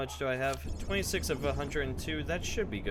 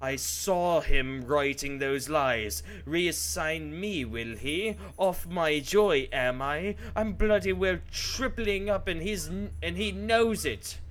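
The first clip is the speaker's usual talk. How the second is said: building from angry to furious, higher and louder; slow, loud, bitter outburst turning to a higher shout; rising rage; 6 semitones higher, 4 dB louder, slower than usual. Acted. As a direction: work yourself up into a furious rant. Diary writer raging at colleague.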